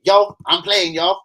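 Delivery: lightly hollered demo. Shown as a demonstration. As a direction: holler it like calling from the crowd. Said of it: "just holler now and just say".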